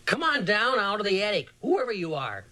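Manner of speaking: savage call. A narrator's reading. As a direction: bark the order upward, daring whoever hides. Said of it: "called in a savage voice".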